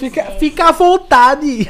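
high, slow, drawn-out singsong; hammy singsong. Pretend. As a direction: stretch it out teasingly. Sends guest off, joking.

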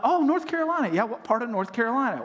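lightly voiced eager acquaintance; mock eager stranger. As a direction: play the curious listener. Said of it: "I'm like".

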